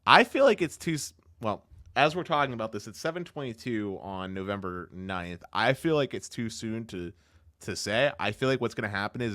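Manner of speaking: choppy, time-smeared stream audio; lagging audio. Real, not acted. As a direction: voice breaking up over a bad connection. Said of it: "you're lagging a lot right now".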